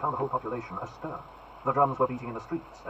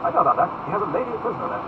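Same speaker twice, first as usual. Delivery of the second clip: haughty duke; 5 semitones higher, 6 dB louder, faster than usual. Acted. Buckingham voiced high.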